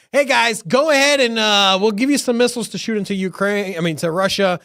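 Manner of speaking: high, loud mocking president; mock the old president loudly; mock Biden voice. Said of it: "he's all like".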